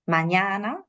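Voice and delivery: "Mañana" with the stressed middle a drawn out; exaggerated vowel lengthening. Shown as a demonstration. Teacher showing long stressed vowels, exaggerated "Mañana". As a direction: stretch the ña in "Mañana". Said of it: "esto lo estoy exagerando".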